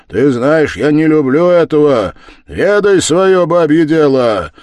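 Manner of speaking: loud, commanding scolding; stern rebuke. Acted. Husband orders his wife back to her women's work, stern loud rebuke. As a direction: put her in her place. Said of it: "крикнул грозно пан Данила".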